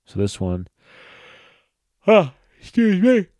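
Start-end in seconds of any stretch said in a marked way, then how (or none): 2.1-3.3 talking through a real yawn, pitch shooting up, louder. Real, not acted. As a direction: let a big yawn take over the words. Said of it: "I fucking yawned there".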